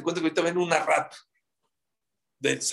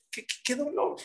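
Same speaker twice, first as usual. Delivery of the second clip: lament; 9 semitones higher, 6 dB quieter than usual. Acted. Friends lamenting the ruined Temple.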